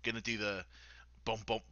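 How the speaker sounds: hushed aside; whisper. Real, not acted. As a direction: whisper the plan. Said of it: "whispering plan aside".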